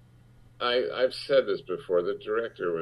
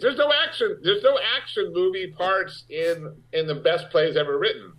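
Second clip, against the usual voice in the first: laughing disbelief; 10 semitones higher than usual. Real, not acted. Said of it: "incredulous, laughing".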